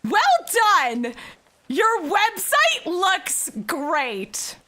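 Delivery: mildly hammed-up teacher's compliment; professor's praise. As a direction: read out the praise with a hint of proclamation. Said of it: "here's what the professor said".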